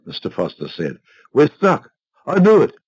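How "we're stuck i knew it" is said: high, louder told-you-so; vindicated exclamation. A narrator's reading. Husband sure the flight is missed, exclaiming in vindication. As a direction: exclaim it as proof he was right. Husband declares the car is stuck.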